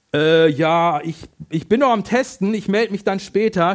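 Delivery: hesitant, halting stammer with a loud first "Äh". Acted. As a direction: stumble over the words, caught off guard. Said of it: "stammelst du ins Telefon". (stammelnd und stockend ins Telefon)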